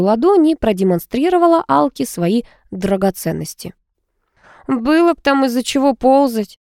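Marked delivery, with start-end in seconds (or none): 4.7-6.6 scoffing. A narrator's reading. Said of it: "фыркнула Алка".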